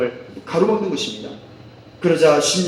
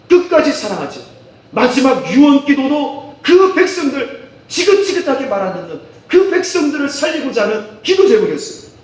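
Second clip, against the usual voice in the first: 설교; 2 semitones higher, 4 dB louder than usual. Acted. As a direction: preach it out with force. Preaches at full force. (힘주어 외치는 설교)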